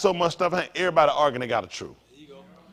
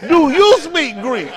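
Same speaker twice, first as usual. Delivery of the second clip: laughing mock question; 10 semitones higher, 9 dB louder, slower than usual. Retelling friend's question, laughing.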